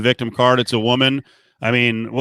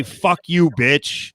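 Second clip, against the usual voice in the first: mock the quote with disbelief; 2 semitones higher, much slower than usual. Host scoffs at the fan's claim, mocking. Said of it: "LeBron didn't say".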